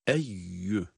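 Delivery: "Eyyü" with a clear doubled y; pure y sound. Shown as a demonstration. Teacher modelling the letter ya, "Eyyü" with pure y. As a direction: say "Eyyü" straight on the y, no nasal. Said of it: "ya harfinin sesiyle okuyoruz".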